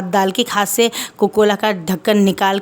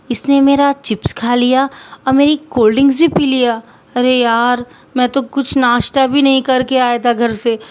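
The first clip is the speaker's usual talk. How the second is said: lightly voiced complaint; 3 semitones higher than usual. The speaker's sad complaint.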